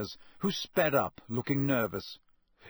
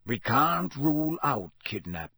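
growled. Acted. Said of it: "growled Moody".

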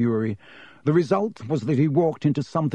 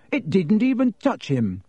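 higher-pitched indignant protest; shaking with anger; 7 semitones higher than usual. A narrator's reading. Boy defending himself to Ernie, angry. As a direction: protest hotly. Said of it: "his voice shaking with anger".

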